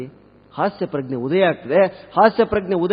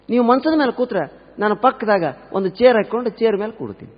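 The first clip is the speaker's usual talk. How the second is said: lightly voiced daughter-in-law, pitched higher; dutiful new bride; 5 semitones higher than usual. New wife answers her mother-in-law, lightly acted dutiful reply.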